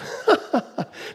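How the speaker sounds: high chuckle; amused laugh. Real, not acted. Preacher laughing at unattractive eternal choir, amused. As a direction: burst into a short high laugh. Laughs at dull picture of heaven.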